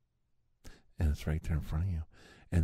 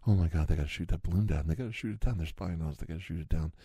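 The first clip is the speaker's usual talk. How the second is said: mock panicked citizen; faster than usual. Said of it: "You're like".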